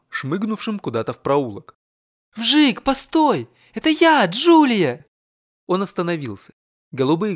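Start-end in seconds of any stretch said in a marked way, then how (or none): 2.4-5.1 high, loud pleading call, first words slow; calling after. Acted. Yulia chasing her friend down an alley, high and loud. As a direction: shout after him to stop.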